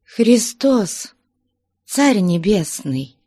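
frightened gasp. Acted. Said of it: "отступая назад, отвечала Настя".

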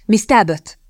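impassioned cry of her name; passionate. Acted. Young man declaring himself to Kitty, passionate. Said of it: "szólt szenvedélyesen".

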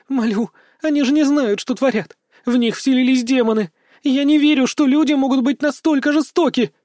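high, loud begging; girl pleading with the hero, terrified; desperate pleading. A narrator's reading. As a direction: plead for your life. Girl begs hero for mercy.

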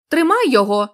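shout. Acted. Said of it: "крикнув хтось".

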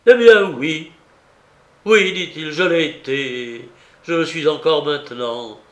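loud, high outburst of despair; despairing cry. Acted. Aratov confessing his love to Anna, despairing loud cry. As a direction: burst out with the confession. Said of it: "s'écria-t-il avec un vrai désespoir".

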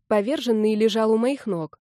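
ordinary delivery

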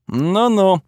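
mocking little chuckle; smirking. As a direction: tease him with a smirk. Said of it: "усмехнулся Готфред".

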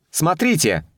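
sudden high excited cry; excited call. A narrator's reading. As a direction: call out, pointing in alarm. Girl points, calls out.

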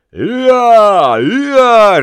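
high, loud braying "Я, я"; donkey bray. A narrator's reading. Bargeman braying back. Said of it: "ревел судовщик".

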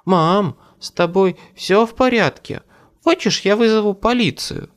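put-on high, worried girl's voice; an anxious child, pitched well up; trembling voice. A narrator's reading. Daughter asks mother if she should call police, trembling voice. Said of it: "спросила она дрожащим голосом".

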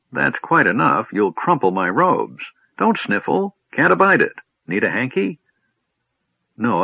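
high, fussy, prim scolding; a doddering mage fussing over his robes; fussy old wizard. Acted.

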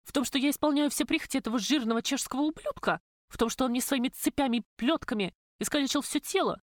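выше, быстрее, с обидой и злостью; выплесни накопившуюся злость; возмущённо. Acted. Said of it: "подскочила от возмущения". (Любка возмущается перед подругой)

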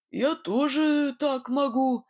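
slow, wavering boast as confidence melts; faltering boast. A narrator's reading. Nightingale, losing to the unseen rival: slow, faltering boast. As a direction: insist though you no longer believe it. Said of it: "его уверенность таяла на глазах".

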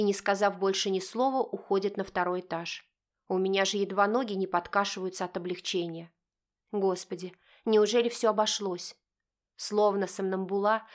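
usual speaking voice

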